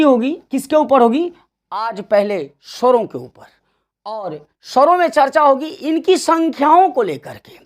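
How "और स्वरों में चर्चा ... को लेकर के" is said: संख्याओं given extra weight; stress on संख्याओं. Shown as a demonstration. Teacher stressing संख्याओं for students, a firm push on संख्याओं. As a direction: lean on the word संख्याओं. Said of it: "मैंने संख्याओं शब्द पे जोर दिया".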